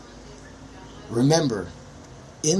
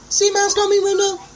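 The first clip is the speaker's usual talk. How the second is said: even higher, strained shouted question; louder, higher repeat of the challenge; shrill yell; 5 dB louder than usual. Real, not acted. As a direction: push it up into a near shriek.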